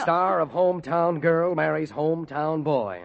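slow sneering quote; sarcastic. Acted. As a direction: spit the headline back mockingly. Jeff mocks the headline.

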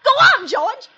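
screaming into a dead line; frantic calling. Acted.

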